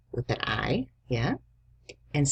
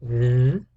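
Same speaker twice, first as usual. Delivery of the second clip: The said louder and clear; clear dictation; 5 dB louder than usual. Shown as a demonstration. Teacher dictates The to the class. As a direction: say The firmly for dictation. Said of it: "your last word is the".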